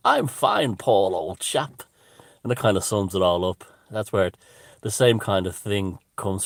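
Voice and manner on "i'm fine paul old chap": high, loud English caricature reply; stretched-out mock-English cartoon voice, starting very high; a band's cartoon voice. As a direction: answer as a hammy cartoon English chap. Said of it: "there's the voices of".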